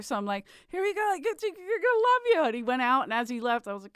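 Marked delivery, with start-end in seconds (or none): 0.7-2.4 high-pitched hype-up; mock pep talk. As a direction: act out cheering on a reluctant performer. Hyping up a reluctant comic backstage.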